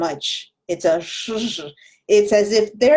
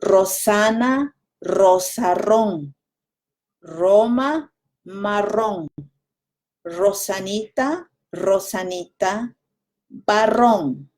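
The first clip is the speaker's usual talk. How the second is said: slower demo. Shown as a demonstration. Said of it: "Let me slow down".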